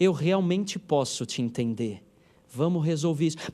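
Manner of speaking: smooth, velvety, soft radio-announcer voice. Showing how to calm a frightened person: velvety late-night radio voice. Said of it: "você fala desse jeito".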